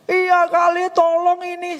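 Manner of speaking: mock sobbing plea, pitched high; imitated tearful pleading. Widow begging the speaker for help, imitated tearful pleading. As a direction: plead in a high, put-on crying voice. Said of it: "malam-malam dia nangis".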